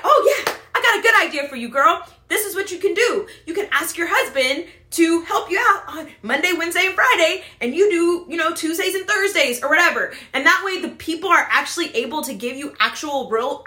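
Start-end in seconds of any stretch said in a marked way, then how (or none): 0.0-10.1 eager helpful friend. Retold or imitated. Helpful mom giving advice.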